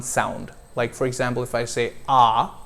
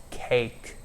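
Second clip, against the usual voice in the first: slow, careful Next is play; slow model word; 7 dB quieter than usual. Shown as a demonstration. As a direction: model the word slowly for repeating. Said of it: "repeat these words after me".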